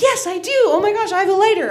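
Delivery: high, eager yes; retold burst of excitement; so excited. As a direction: gush with delight at being able to help. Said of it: "And I was so excited".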